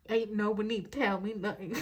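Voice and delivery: casually put-on drawling accent; light, joking accent. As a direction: slip playfully into an accent. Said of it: "I don't know why I'm talking in an accent".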